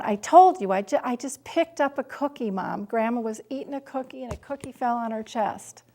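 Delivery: mild imitation of an angry daughter; defensive retort. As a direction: snap back in frustration. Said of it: "kind of heat in her eyes, flashing the fire at me".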